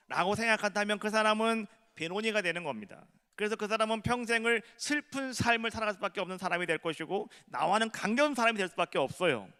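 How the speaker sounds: fervent sermon call to the whole church; full-force preaching. Acted. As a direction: drive the appeal home from the pulpit.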